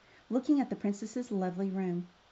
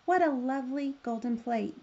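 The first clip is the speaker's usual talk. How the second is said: lightly voiced frog, a bit higher; cheerful little frog; 4 semitones higher, 4 dB louder than usual. A narrator's reading.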